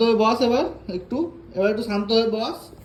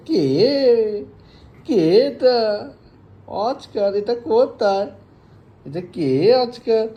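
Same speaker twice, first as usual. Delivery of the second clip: louder, slow, playful quizzing; excited pet talk; 3 semitones higher, 5 dB louder, slower than usual. Real, not acted. Owner playfully quizzing Oscar about the toy, louder and slow. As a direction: hype up the pet with a game.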